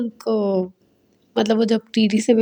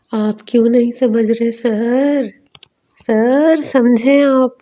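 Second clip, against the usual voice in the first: slow, louder urging; insistent pleading; 3 semitones higher, 4 dB louder, slower than usual. Retold or imitated. Goading the father about his son, slow and pressing. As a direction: press him hard to finally get it.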